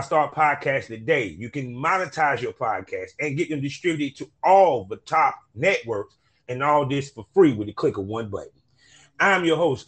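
practised show-opening announcer read; podcast host intro. Acted. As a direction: greet the listeners big, then roll through the plugs. Reads podcast intro and sponsor plug.

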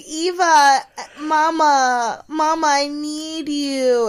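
high, slow, hammed-up crying plea; mock panicked whimper. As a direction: wail for mama like a scared child on a bumpy flight. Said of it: "she's like".

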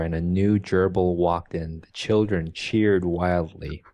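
even, literary read-aloud; story reading. Acted. Podcaster reads a favourite ending to co-host, measured story reading. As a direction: read the passage with measured care.

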